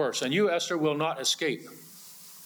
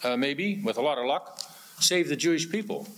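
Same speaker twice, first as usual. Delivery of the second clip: mock hesitant encouragement; 3 semitones higher than usual. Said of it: "It's like saying to Esther".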